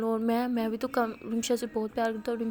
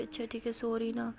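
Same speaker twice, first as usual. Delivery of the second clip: sheepish soft apology; 6 dB quieter than usual. Acted.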